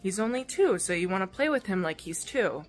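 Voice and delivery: a hint of a big kid explaining gently; imitating the older boy. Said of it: "he's like".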